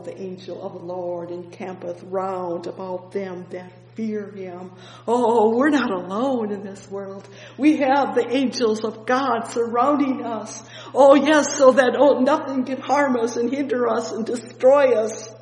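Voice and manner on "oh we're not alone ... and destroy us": louder, ringing sermon build; full-force gospel preaching; fervent preaching. Acted. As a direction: preach it out with rising fire. Preacher surges again.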